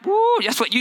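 high excited woo; excited whoop. Real, not acted. Preacher whooping at the rug memory. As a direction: burst out with delight.

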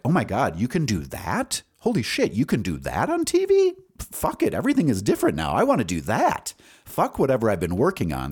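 high, amazed, tumbling out; excited gushing. Retold or imitated. TV creators marvel at the new show, high and amazed. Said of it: "all the talk around how, like".

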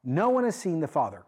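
"No one" stressed, declared with conviction; "No one has seen the Father" said emphatically; emphatic declaration. Acted. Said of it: "say this in emphatic terms".

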